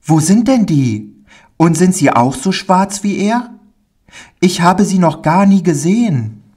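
put-on high child voice, rushing then dropping into fear; a small boy dreaming of the circus, then remembering his dread; eager little boy. Pauli tells the stranger about the circus in a high, eager child voice.

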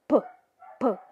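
P spat out with a puff of air; aspirated English p. Shown as a demonstration. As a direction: spit the P sound out. (P cuspido, com sopro de ar)

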